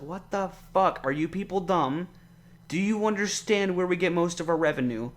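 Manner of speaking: what-the-hell exasperation; exasperated disbelief. Real, not acted. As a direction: pitch it up in disbelief at the voters. Ranting about Chicago secession vote.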